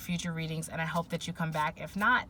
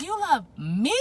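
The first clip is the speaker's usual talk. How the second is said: put-on toddler asking again; 6 semitones higher, 4 dB louder than usual. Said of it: "And she's like".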